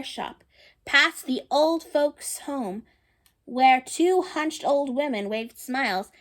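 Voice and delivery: gentle read-aloud storytelling voice; storybook narration. A narrator's reading. Reading a picture book to children, storybook narration. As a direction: read the story to the little ones.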